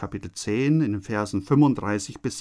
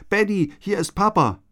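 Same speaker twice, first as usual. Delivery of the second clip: a father's call from below, lightly voiced, higher; 7 semitones higher than usual. A narrator's reading. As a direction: call up to the boy through the smoke. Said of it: "hört er plötzlich die Stimme des Vaters". (Vater ruft dem Sohn durch den Rauch zu)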